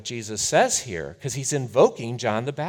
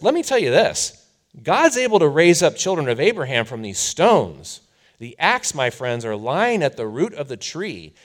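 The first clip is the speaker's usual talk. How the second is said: loud, high, fierce warning; fiery prophet; 4 semitones higher, 8 dB louder than usual. Retold or imitated. John warning the crowd of the axe, shouted. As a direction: thunder it at the crowd. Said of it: "He says".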